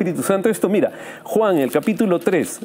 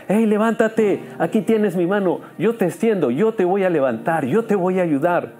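bright, higher, rousing call to get up; eager encouragement; 6 semitones higher than usual. Acted. God to the listener, reaching out, bright and higher. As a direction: reach out a hand with lifted energy. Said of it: "que Él te dice".

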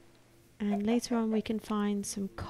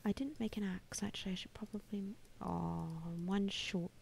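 whispering to himself; 4 semitones lower, 13 dB quieter than usual. Real, not acted. Muttering while crafting.

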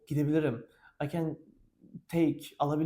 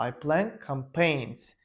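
slow, word by word teacher demo; slow model sentence; 2 semitones lower, slower than usual. Shown as a demonstration. Teacher models the answer for students, slowly. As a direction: lay out each word slowly for the class.

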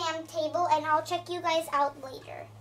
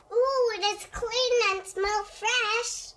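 put-on higher, slow little girl voice; child doll voice; 5 semitones higher, slower than usual. Chelsea admiring the new bathroom, a childlike coo. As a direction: voice Chelsea in awe.

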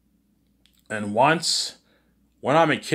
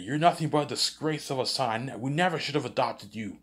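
higher, scornful yelling parent; mock parent yelling; 5 semitones higher than usual. Parents yell at the adopted son, scornful mock yelling. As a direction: spit out the disgrace at the son. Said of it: "they're yelling at me".

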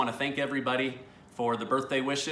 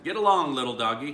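a light cowboy twang on "Get along, little doggy"; cowboy accent; 4 dB louder, faster than usual. Shown as a demonstration. Dad explaining the pun in a mild cowboy accent. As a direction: call it out like a cowboy on the trail, lightly. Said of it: "I had to say it with a cowboy accent".

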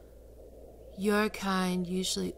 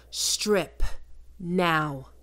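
firm command; 6 dB louder than usual. Acted. Repeated final warning.

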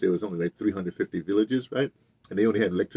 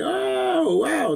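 hammed-up, much higher amazed "Oh, wow"; mock amazement; 4 dB louder than usual. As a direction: play the awe of seeing bare rocks. Amazed newcomers seeing the rocks.

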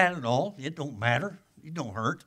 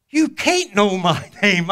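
laughing disbelief; 5 semitones higher, 10 dB louder, slower than usual. Retold or imitated. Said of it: "he's going".

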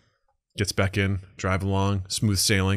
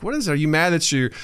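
voiced girlfriend; 8 semitones higher than usual.

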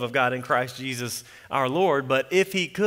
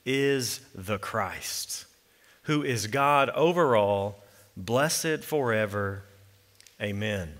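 solemn scripture reading. Acted. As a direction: read it as holy words, unhurried. Reads the Romans passage aloud.

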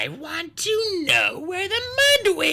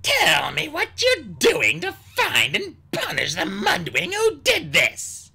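loud, high, slow command; stern royal demand; 5 dB louder, slower than usual. A narrator's reading. Queen Ruby orders them to find the Mudwing, stern. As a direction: demand it with heavy, deliberate weight.

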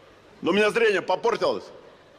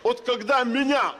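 slow emphatic question; 5 semitones higher, slower than usual. Acted. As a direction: spell it out slowly, exasperated. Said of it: "подошёл и говорю".

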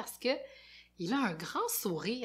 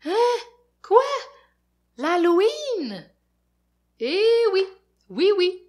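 high, loud eager reply; excited; 9 semitones higher, 10 dB louder than usual. Acted. Fafounet thrilled to join friends for Halloween. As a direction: perk up at the word Halloween.

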